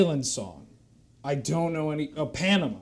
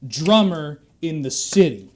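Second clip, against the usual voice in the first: louder, building pushy salesman hype; excited sales pitch; 6 dB louder than usual. Acted. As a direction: sell the premier package hard. Drum instructor's sales pitch.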